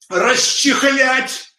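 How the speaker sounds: drawn out syllable by syllable; very slow, stretched word. Shown as a demonstration. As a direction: stretch the word расчехлять very slowly. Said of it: "показываю, как правильно".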